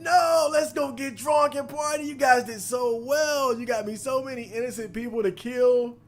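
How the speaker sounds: mock party invitation. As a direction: sell the fake friendliness, a touch hammed-up. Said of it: "He insisted".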